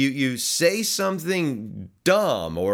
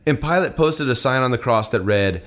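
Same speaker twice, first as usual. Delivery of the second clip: steady, slightly louder Bible reading; scripture reading; 4 dB louder than usual. Acted. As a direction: read the passage out to the congregation. Reads the scripture passage aloud.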